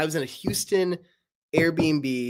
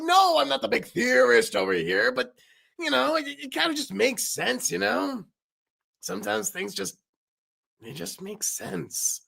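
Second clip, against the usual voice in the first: Knife's voice; 6 semitones higher than usual. Acted. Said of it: "Paper and Knife talking".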